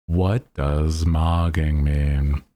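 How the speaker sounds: slow, drawn-out mock explanation; mock tired explainer. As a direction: explain slang as if lightly weary of it. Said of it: "tiredly explaining modern phrases".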